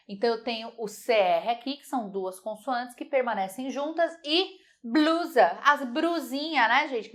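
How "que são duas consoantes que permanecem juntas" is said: ordinary talk, nothing marked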